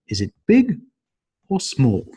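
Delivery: "is it big" high and rising, "or small" falling; or-question tune. Shown as a demonstration. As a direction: rise on "big", drop on "small". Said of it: "the intonation goes up and down".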